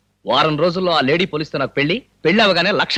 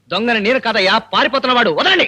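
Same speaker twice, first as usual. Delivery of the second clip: higher and louder, pleading to be let go; desperate protest; 4 semitones higher, 5 dB louder than usual. Acted. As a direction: insist it's not him. Wrongly grabbed man protesting. (గట్టిగా వాదిస్తూ)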